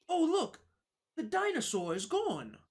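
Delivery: high, sing-song mock British accent, like a cartoon child. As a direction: put on a squeaky British kid accent to tease the game. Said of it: "play the rest of this game in a British accent".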